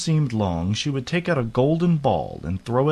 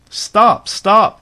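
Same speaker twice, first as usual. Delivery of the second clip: high, loud call to halt; urgent, high-pitched shout after someone; crying out; 11 semitones higher, 9 dB louder than usual. A narrator's reading. Frog calling after the fleeing princess, high urgent cry. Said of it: "cried the frog".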